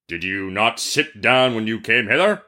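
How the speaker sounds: stern genie interrogation; demanding genie. Acted. Genie questions the merchant, stern demanding voice. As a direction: press the question as an accusing genie. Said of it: "demanded the genie".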